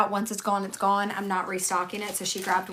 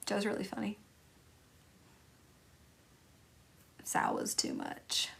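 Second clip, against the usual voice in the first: soft unvoiced confiding aside; whispered aside; 11 dB quieter than usual. Real, not acted. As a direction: whisper it like a secret. Private asides to chat.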